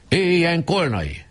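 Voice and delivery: high, slow cheering cry; enthusiastic cheer. A narrator's reading. The boys hail their new president, cheering. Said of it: "lelkesen kiáltották".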